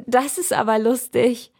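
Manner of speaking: the little girl calls out, pleased and lightly voiced; delighted little girl. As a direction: call out with a child's delight. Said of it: "ruft die Kleine vergnügt".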